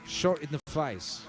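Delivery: mock Australian official making an announcement; hammed-up Australian accent; bad Australian accent. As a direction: imitate an Australian TV address, badly. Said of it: "I can't do the voice".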